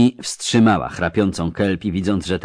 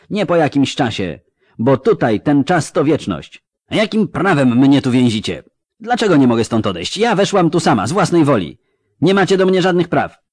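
angry; 5 semitones higher than usual. Acted. Ciri demanding release from the elf, furious. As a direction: demand it, fiercely.

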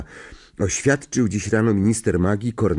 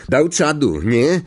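higher, louder, animated gossip; excited conductor; 5 semitones higher, 4 dB louder than usual. Acted. Stan brags to the driver about the mayhem, excited conductor. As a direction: relish the tale like an excitable conductor. Stan gleefully recounts the crime.

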